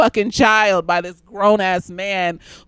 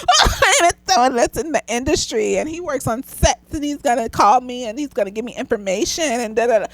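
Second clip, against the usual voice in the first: put-on gushing teen girl; 3 semitones higher than usual. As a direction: play a naive eighteen-year-old showing off. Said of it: "telling all my friends".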